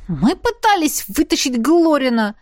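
high, squeaky character voice; a squeaked excuse; squeaked protest. A narrator's reading. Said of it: "пискнул Лин".

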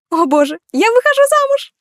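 giddy high cry of delight; ecstatic squeal. Acted. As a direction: squeal it like a girl who just got engaged. Bride overjoyed at the proposal.

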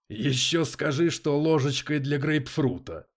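high, slow, loud mockery; amused, incredulous scoff; scoffing amusement. A narrator's reading. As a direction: draw it out as a jeer. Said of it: "хохотнул Дэвид".

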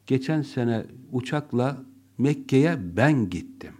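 ben pressed just before gittim; stress on ben. Shown as a demonstration. Teacher showing the class stress on ben. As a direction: make ben the key word. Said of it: "benim gittiğim önemliyse".

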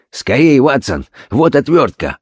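urgent orders, voice catching; breaking voice. Acted. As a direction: command in a breathless rush. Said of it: "прерывающимся голосом командовал". (прерывающимся голосом)

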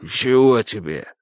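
slow, just-woken grumble; hoarse sleepy man. A narrator's reading. Woken husband asks the roof man, sleepy. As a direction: answer groggy from sleep. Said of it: "сиплый мужской голос".

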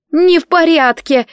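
high, loud, tearful protest on не; almost crying, frightened girl; girl nearly in tears in the dark; near sobbing. Acted. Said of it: "едва не рыдала Селия".

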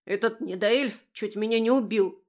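indignant little beast; angry snort. A narrator's reading. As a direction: huff out the complaint. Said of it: "гневно фыркал Шинж".

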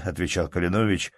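plain reading voice

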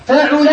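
فعل said fa-'u-la, middle vowel u; damma on ain. Shown as a demonstration. Teacher listing verb patterns, فعل as fa'ula. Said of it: "فعل بضم العين".

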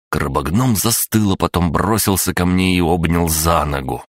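ordinary delivery, nothing marked

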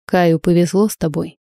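a slightly hoarse, husky catch. Acted. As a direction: say it with a hoarse rasp. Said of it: "с какой-то хрипотцой в голосе".

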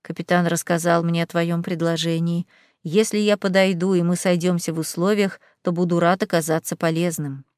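low, rumbling demon voice. Acted. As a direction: rumble it from inside a helmet. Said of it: "пророкотал из-под шлема призрачный демон".

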